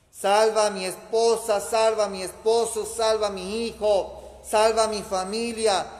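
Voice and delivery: loud insistent litany; fervent pleading. Real, not acted. (súplica ferviente y fuerte)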